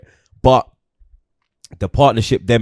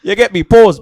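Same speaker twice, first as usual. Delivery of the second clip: much higher, much louder cartoon warthog voice; hammed-up Pumba voice; Pumba impression; 13 semitones higher, 9 dB louder than usual. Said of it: "Right into the fucking microphone".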